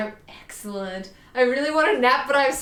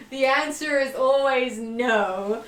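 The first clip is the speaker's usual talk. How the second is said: mock melodramatic; 3 semitones higher, slower than usual. Real, not acted. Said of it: "The answer to that is always no".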